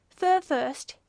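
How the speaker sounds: loud exclamation; exclaimed. A narrator's reading. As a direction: call it out sharply to the whole court. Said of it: "exclaimed a white ibis".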